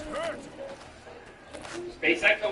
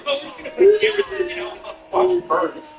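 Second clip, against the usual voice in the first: higher, louder, breezy parody of a company rep; mock company voice; 11 semitones higher, 3 dB louder than usual. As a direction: toss it off like a smug company spokesman.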